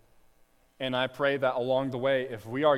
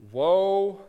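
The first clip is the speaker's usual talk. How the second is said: loud, higher cry of Woe; 5 semitones higher, 6 dB louder than usual. Retold or imitated. Preacher voicing suffering nations, crying out loud. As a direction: call Woe out like oppressed nations. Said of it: "They're crying out".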